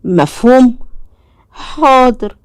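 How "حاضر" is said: lightly voiced obedient little boy; a small boy agreeing, higher; a hint of a dutiful son; child voice. A narrator's reading. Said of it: "child agrees to father".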